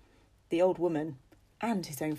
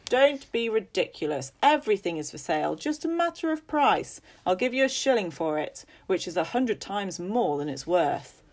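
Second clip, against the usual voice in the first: louder, dismissive bargaining; scornful haggling; 3 semitones higher, 5 dB louder than usual. Acted. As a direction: brush her off and push money. Father haggles with old woman.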